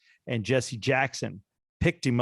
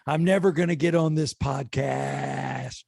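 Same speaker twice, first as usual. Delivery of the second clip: high, slow put-on voice of a fed-up wife; mock wife voice; 5 semitones higher, slower than usual. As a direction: drag it out like a scolding wife. S0 voicing wife, exasperated.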